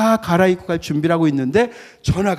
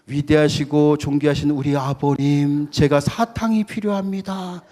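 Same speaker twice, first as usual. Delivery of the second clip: put-on stiffly formal child. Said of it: "아버지가 섬찟할 거예요".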